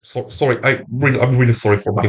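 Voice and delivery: talking through a blocked nose; stuffy nose, speaking through it; nasal voice. Real, not acted. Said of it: "I know that I'm talking through the nose".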